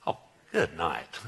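low, slow groan of mock despair; playful dismay; mock exasperation. Real, not acted. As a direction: sigh at the sleepy crowd. Weak congregation response.

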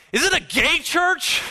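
very high, loud incredulous question; mock astonishment. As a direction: imitate a stunned woman squealing her question. Voicing the astonished woman's question.

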